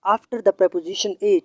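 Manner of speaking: each word of the rule spelt out slowly; slow, deliberate classroom dictation. Shown as a demonstration. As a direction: dictate the rule so students can write it down. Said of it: "teacher repeats rule slowly".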